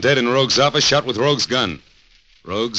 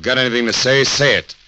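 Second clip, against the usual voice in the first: threatening shout; 3 semitones higher, 3 dB louder, slower than usual. Acted. Gunman about to shoot Rogue.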